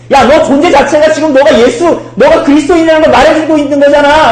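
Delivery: high, loud, insistent confrontation; accusing servant girl. Acted. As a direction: call him out loudly and insistently. Acting the servant girl confronting Peter. (높은 소리로 세게 몰아붙이듯)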